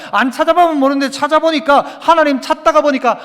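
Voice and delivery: emphatic, driving sermon delivery; forceful preaching. Acted. Preacher urging the congregation to seek God, forceful preaching. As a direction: press each phrase home like a preacher.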